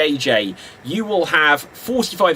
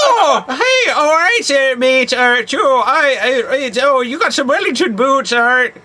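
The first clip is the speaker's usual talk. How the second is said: cheeky chimney-sweep accent, hammed up; Dick Van Dyke cockney; 7 semitones higher than usual. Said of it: "Hello, Mary Poppins".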